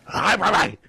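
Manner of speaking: lightly put-on, silly pet greeting; cooing dog greeting. Shown as a demonstration. Showing how you go to the dog, cooing dog greeting.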